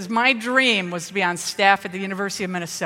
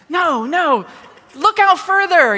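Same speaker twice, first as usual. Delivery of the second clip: excited calling out; 8 semitones higher, 6 dB louder than usual. Retold or imitated. Kid urging dad to chase storm.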